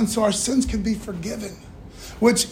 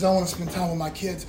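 quick quiet voice of God; 4 semitones lower, 5 dB quieter, faster than usual. Acted. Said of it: "and he says".

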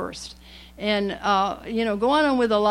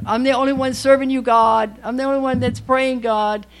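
mock self-righteous; 2 semitones higher, 6 dB louder than usual. Mocking self-righteous believer.

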